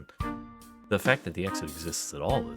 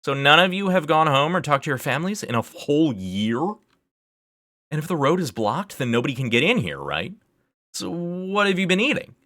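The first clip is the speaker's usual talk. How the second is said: high, loud, incredulous questioning; exasperated, voice pitched way up; worked-up outburst; 12 semitones higher, 7 dB louder than usual. Acted. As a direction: fire off disbelieving questions at full pitch. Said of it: "got a bit worked up".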